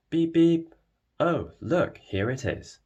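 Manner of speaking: high, loud bus horn call, then bright delight; excited beep beep. Acted. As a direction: toot like a bus horn, thrilled.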